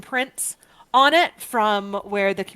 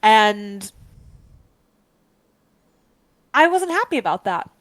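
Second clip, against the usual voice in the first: Bog Witch voice; 7 dB louder than usual. Acted. Witch voiced by the game master.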